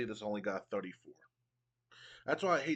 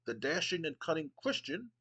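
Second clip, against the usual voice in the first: a hint of a haughty British commissioner, pitched higher; pompous Regal; 4 semitones higher than usual. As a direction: sneer down at the crowd with mock refinement. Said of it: "Regal goes".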